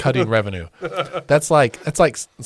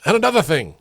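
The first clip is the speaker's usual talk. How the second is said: raised, louder mock-ranting catchphrase; mock soundboard catchphrase; 6 semitones higher, 5 dB louder, faster than usual. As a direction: announce it like a ranter's punchline. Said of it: "a button on our soundboard that, that says".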